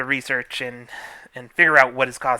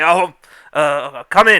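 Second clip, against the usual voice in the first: gruff, loud male voice, very slow; 3 semitones higher, 8 dB louder than usual. Narrator voicing a man inviting the group into the mayor's office, gruff man's voice. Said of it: "this man with kind of a gruff voice say".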